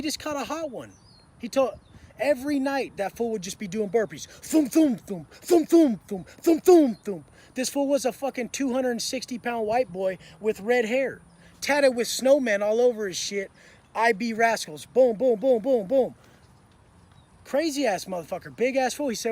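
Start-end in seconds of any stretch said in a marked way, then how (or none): 4.3-7.2 loud rhythmic thum-thum thuds; punchy mouth-made thumps; imitated burpee thuds. 14.9-16.1 loud, even string of booms; imitated booms. Imitates rapid booms in story.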